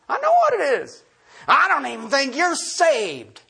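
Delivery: a hint of a high, scornful judge; mock legalist retort. Preacher mimics a church member judging a legalist, mock scorn. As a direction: toss it off like a smug accuser. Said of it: "That's what we do".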